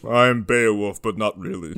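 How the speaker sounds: low-pitched, lightly voiced deadpan warrior; a hint of a low character voice; Norm. Riffing on the gnome as a warrior, lightly imitated low voice. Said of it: "he talked like Norm".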